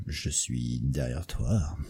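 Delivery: very low, slow, creepy breath; dark whisper behind you. Pretend. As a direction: lurk right behind the listener. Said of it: "avec la bonne voix".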